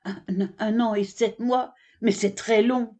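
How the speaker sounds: stammering, choked disbelief; choking in shock. Acted. The camel learns of his ban and sputters in shock. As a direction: sputter it out, caught off guard. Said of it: "Le chameau s'étrangle".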